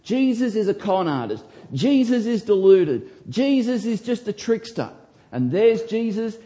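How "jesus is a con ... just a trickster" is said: higher, scornful list of insults; mock the sceptics' sneer; sneering Pharisees. Preacher mimicking the scornful Pharisees, sneering. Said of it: "These were the people that said".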